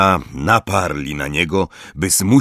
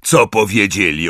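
dismissive; 5 semitones higher, 5 dB louder than usual. Acted. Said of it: "odrzekł lekceważąco Hagrid".

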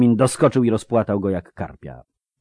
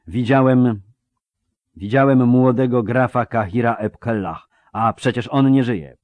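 higher, louder, mildly alarmed insistence; shaken witness; 4 semitones higher, 5 dB louder than usual. Acted. Soldier telling his commander of a dead count, shaken witness. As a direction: insist on the impossible sighting.

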